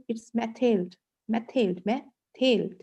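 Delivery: "methyl" drawn out very slowly, meh-TEL; slow French pronunciation. Shown as a demonstration. Teacher drilling the class on "methyl", slow and clear. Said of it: "जो French pronunciation है".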